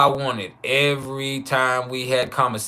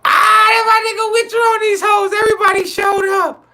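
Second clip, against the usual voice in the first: much higher, loud hype greeting; excited shout; 6 dB louder than usual. Real, not acted. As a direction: shout it out, hyping the crowd. Greeting stream arrivals.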